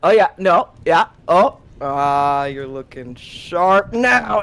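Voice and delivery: put-on loud, laughing drunk reassurance; tipsy bravado. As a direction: swagger through it, a bit drunk. Drunk Hawthorne tying bow tie.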